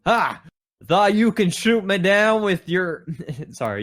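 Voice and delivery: high, taunting hero's cry; triumphant yell. Acted. Hero defying Zeus after the bolts stop, triumphant. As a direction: crow in victory at the sky. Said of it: "You yelled triumphantly at the sky".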